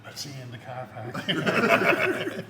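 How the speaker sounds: laughing. Real, not acted. Joke about meeting later.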